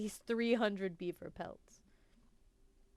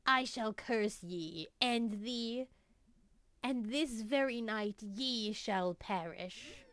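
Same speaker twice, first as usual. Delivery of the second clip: put-on creaky old witch cursing travelers; old hag; 3 semitones higher than usual. Improvised witch speaks to travelers.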